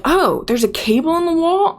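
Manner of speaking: high, baffled mock question; mock clueless office lady. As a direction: play her as dim and surprised, a bit hammed-up. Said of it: "She's like".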